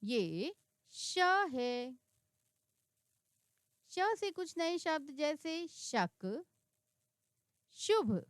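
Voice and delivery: slow, careful teacher reading of the letter and words; slow model reading. Shown as a demonstration. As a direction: spell out each sound slowly for learners. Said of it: "आप भी मेरे साथ उनको पढ़ने का प्रयास करें".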